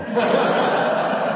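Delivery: short airy giggle; real amused laugh; high breathy laugh. Real, not acted. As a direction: laugh lightly at the line. Laughs at his story.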